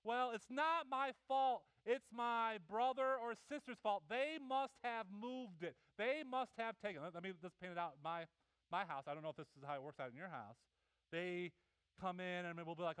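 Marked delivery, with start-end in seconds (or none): 0.1-7.0 higher, slow whiny excuse; a child's whiny excuse; mock kid excuse. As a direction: play the kid blaming a sibling. Kid blaming sibling.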